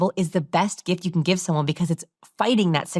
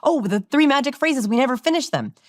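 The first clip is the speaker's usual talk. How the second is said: quoted thought; 8 semitones higher than usual. Retold or imitated. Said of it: "quoting an inner thought".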